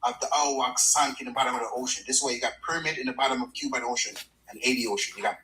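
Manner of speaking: Jamaican accent. Real, not acted. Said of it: "get a little Jamaican accent going".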